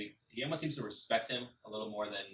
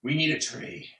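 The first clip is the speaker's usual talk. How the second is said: higher and louder bear voice; blunt bear; 4 semitones higher, 6 dB louder than usual. Acted. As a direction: say it flatly like a heavy beast. Bear demands.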